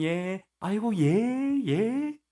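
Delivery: high, drawn-out mock yes-man; two-faced agreeableness. Acting out saying yes to their faces, two-faced agreeableness. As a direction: fawn with exaggerated agreement. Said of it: "그냥 앞에서는".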